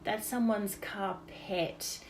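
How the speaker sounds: slow, hushed mock sympathy for a carpet; mock-tragic dad, slow and trailing into a whisper; Dad's mock pity. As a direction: play the silly dad pitying a lost carpet, drawn out. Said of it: "and he'd say".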